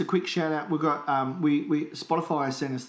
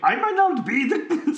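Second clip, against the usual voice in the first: villain voice; 12 semitones higher, 7 dB louder than usual. Pretend. Mock villain threat continuing.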